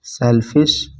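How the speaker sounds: "सेल्फिशनेस" spaced out as sel, fish, ness; syllable-by-syllable dictation. Shown as a demonstration. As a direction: dictate "सेल्फिशनेस" piece by piece with long gaps. Teacher dictating word while writing.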